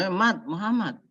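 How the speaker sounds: mild voiced angel; lightly voiced Jibril. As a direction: speak as an eager angel offering revenge. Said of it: "Padahal Jibril udah ngomong".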